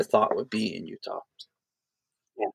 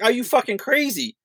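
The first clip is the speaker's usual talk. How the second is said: alarmed outburst; 12 semitones higher than usual. Retold or imitated. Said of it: "But outside, I was like".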